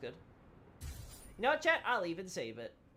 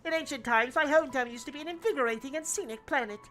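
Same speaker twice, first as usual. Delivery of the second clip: muffled robot voice through cupped hand; hand over mouth. Acted. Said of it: "put my hand over my mouth".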